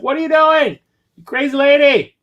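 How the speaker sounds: hammed-up yell at the lady; retold scream. Streamer recounting screaming at the clerk, high mock yell. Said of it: "screaming at her".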